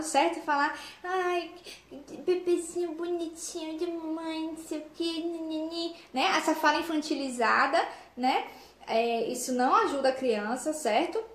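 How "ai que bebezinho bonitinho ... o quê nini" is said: put-on cooing, slowed baby talk, higher and softer. Adult imitating baby talk to a toddler, higher and softer. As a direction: coo at the baby in a sing-song. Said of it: "falar infantilizado".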